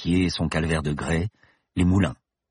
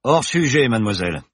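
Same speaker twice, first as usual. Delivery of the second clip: icy voice; 5 semitones higher, 4 dB louder than usual. Acted. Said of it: "il lança d'une voix glacée".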